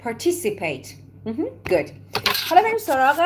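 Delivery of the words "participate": American Participate with a sounded R; American accent. Shown as a demonstration. Teacher repeating the American version for students, American accent. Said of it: "But American people say".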